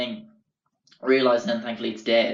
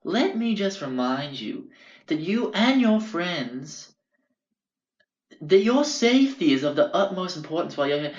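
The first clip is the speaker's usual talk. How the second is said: mock stern landlord; 6 semitones higher than usual. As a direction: lecture him like a weary landlord. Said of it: "he sighed and he said".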